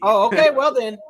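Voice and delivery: mock lady. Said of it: "That's basically what she literally said".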